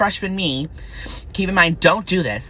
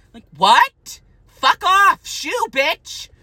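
sassy retort; 14 semitones higher, much slower than usual. Retold or imitated. Retorting to imagined name callers.

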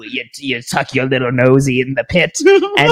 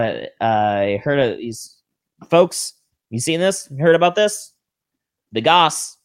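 wrestling promo; 3 semitones lower, 4 dB quieter than usual. Acted. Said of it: "we should do a promo".

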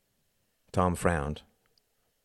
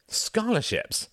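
slow, high incredulous echo; hollow shock; slower than usual. Acted. Son repeating his father's word in hollow shock, slow. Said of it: "his voice hollow with shock".

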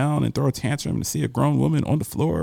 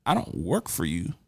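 calmly. Retold or imitated. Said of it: "And I said calmly".

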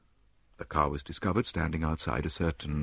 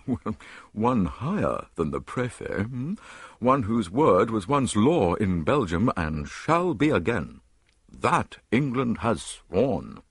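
slow, weighty statesman's pledge; grave, stately promise; solemn minister; 4 semitones higher, 5 dB louder, slower than usual. Acted. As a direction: minister hinting at the Belgian king, slow and solemn. Solemn hint at the king.

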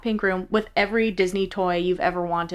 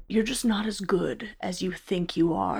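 much softer, imitating a dismissive teacher; quiet put-down; 9 dB quieter than usual. Former student imitating the acting teacher who turned her down, quiet put-down. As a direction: drop the volume for a retold put-down.

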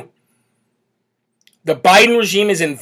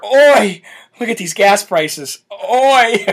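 mocking oi; 2 semitones higher, much slower than usual. Mocking Blitzer's tweet.

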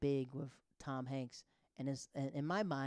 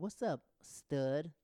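slow flirty drawl; much slower than usual. Retold or imitated.

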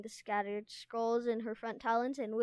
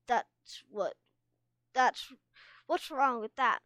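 indignant; 3 semitones higher, 6 dB louder than usual. A narrator's reading. Tsunami arguing back.

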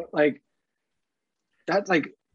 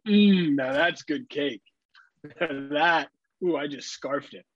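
mock satisfied eater; much slower than usual. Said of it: "come back with an empty plate and go rubbing your stomach".

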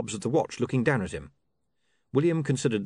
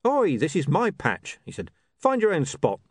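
territorial street chancer; 6 semitones higher than usual. A narrator's reading. Jumper warns off a rival.

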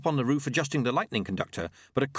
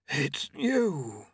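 higher, thin voice for Famine; a lightly raised, bored Famine; 4 semitones higher than usual. A narrator's reading. Famine answers Death.

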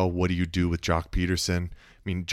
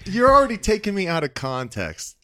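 mock indignation; 5 semitones higher, 5 dB louder than usual. Mock outrage at co-host.

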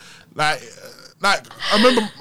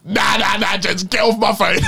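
raised shouting voice, half-joking; mock angry shout; 5 semitones higher than usual. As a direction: shout it like you're fed up. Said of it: "And he said".

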